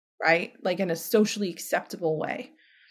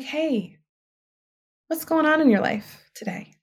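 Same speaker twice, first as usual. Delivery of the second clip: friendly question; 6 semitones higher than usual. Shown as a demonstration. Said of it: "we could ask such better questions".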